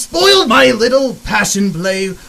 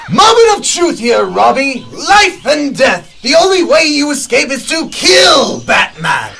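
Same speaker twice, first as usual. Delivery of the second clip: taunting shout; 3 semitones higher, 3 dB louder than usual. Acted. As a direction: bellow the ultimatum with glee. Joker taunts Robin to kill.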